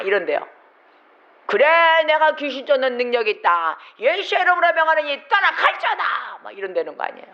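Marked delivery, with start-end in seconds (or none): 1.5-6.0 mock exorcism shout. Preacher imitating an exorcist casting out a demon, shouting. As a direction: bark the command to drive the spirit out.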